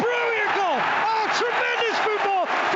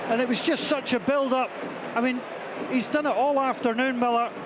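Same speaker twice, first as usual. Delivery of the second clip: excited; 6 semitones higher than usual. Real, not acted. Commentator still buzzing after goal.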